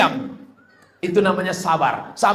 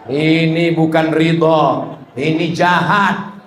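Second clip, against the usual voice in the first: firm rebuke; 4 dB louder, slower than usual. Acted. Preacher rebukes the husband.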